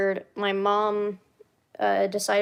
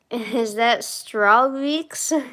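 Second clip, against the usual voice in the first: laughing; 3 semitones higher, much slower than usual. Real, not acted. Laughing surprised greeting.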